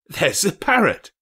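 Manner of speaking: high, loud delighted exclaim; excited cry. A narrator's reading. Scrooge spotting the parrot, crying out with joy. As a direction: shout it out like a thrilled child. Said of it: "cried Scrooge".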